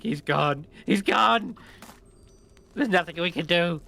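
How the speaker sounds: high, loud goblin despair. Acted. Goblins crying that their leader is lost. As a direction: wail it hopelessly. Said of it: "they're like".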